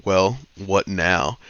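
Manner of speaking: slow, drawn-out tough-guy line; lightly voiced weary hero, slowly; Rick Grimes line. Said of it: "he's on some Rick Grimes shit saying".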